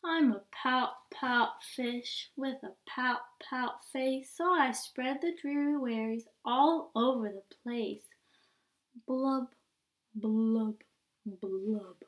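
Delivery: sing-song mope of a pouting fish; droopy refrain, blubs trailing off; glum pout pout fish. Acted. Refrain again.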